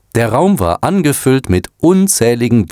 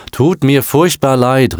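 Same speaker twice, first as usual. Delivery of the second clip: higher, slow, eager cry of sorry; called-out apology; 6 semitones higher, slower than usual. A narrator's reading. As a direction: call the apology out, drawn out. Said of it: "rief Eric".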